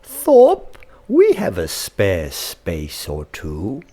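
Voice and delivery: wise voice. Acted. The rabbit offering Thorpe a place to stay, wisely. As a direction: welcome the stray bird in. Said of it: "a wonderfully wise voice".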